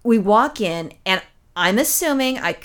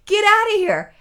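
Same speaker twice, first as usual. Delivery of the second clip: retold yell; 11 semitones higher, 3 dB louder than usual. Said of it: "Ron starts yelling at her now".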